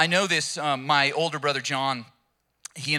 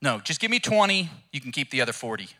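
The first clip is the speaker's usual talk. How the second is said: a cow aghast at the workload; indignant cow; 5 semitones higher, 4 dB louder than usual. Acted. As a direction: protest like a put-upon cow. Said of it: "the cow's like".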